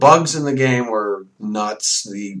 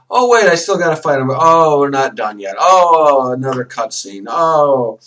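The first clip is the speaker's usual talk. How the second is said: exasperated groaning; 5 dB louder than usual. Retold or imitated. Acts out dread of endless fights.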